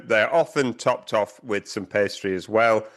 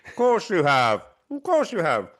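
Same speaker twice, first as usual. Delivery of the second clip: mock knowing tease; 6 semitones higher than usual. Teasing Eddie about beer.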